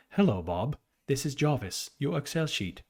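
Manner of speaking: a self-mocking British accent, voicing a butler-like assistant; hammed-up bad British accent with a polite assistant greeting; terrible British accent. Imagining the spreadsheet greeting Bob as Jarvis, in a bad British accent. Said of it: "I have a terrible British accent".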